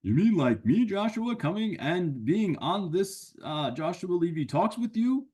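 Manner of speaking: a cheeky friend who butts in; a hint of a goofy puppet buddy; Sammy the sidekick. Sammy claims creativity.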